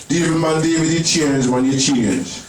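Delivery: a light hint of a Jamaican mum; lightly put-on Jamaican mum's patois; mum's Jamaican accent. Comic telling his mum's words, light Jamaican accent. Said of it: "that's how she speaks".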